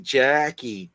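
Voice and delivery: "Jackie" with the vowel stretched long and slow; elongated Jackie. Retold or imitated. Imitating how coworkers stretch "Jackie", slowly elongated. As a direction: draw out "Jackie" slowly, dwelling on the first syllable. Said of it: "like, elongated".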